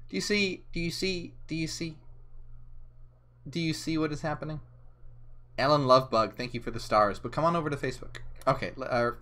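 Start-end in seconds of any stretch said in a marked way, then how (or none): 0.1-4.6 quiet teasing. Acted. Teasing viewers about the stream.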